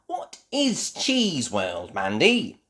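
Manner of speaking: put-on high, slow, wondering child voice; curious Peppa. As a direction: ask it like a curious little girl. Peppa asks about Cheese World.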